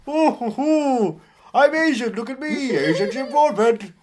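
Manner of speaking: put-on high, loud caricature of an Asian accent; hammed-up, badly faked Asian accent; mock Asian accent. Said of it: "I know who isn't bad at accents".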